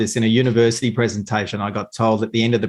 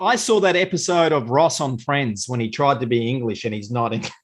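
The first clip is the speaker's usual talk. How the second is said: laughing. Real, not acted. Laughing through the anecdote.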